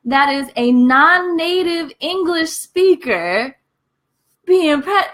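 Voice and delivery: high, exasperated scolding; calling mom out. Pretend. Daughter telling her mother off for prejudice, high and exasperated. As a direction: scold her like you can't believe it. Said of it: "And I'm just like".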